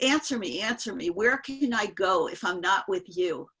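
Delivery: imitating a guru demanding a reply; insistent demand. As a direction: repeat it emphatically, pressing the listener. Guru repeats his demand for answer.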